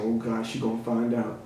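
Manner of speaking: low, soft, hushed panic; panicked inner thought. Retold or imitated. Hushed panic in bed as his girlfriend wakes up. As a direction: mutter it low in dread.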